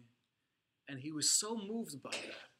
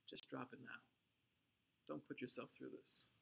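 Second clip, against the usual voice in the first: much softer, hushed aside; whispered warning; 2 semitones lower, 9 dB quieter than usual. Retold or imitated. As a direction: murmur it secretly to the prisoner. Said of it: "the guard actually whispers to him".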